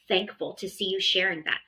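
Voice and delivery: warm, encouraging parent praise; gentle approving parent voice; praising a child. Shown as a demonstration. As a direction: sound genuinely proud of the child. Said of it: "So saying things like".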